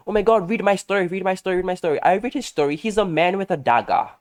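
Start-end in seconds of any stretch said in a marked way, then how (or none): 0.1-2.0 high, insistent repeated plea; excited friend. Retold or imitated. Friend pushing his story on the speaker, excited. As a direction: imitate an excited friend begging for a reader. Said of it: "like, so excited".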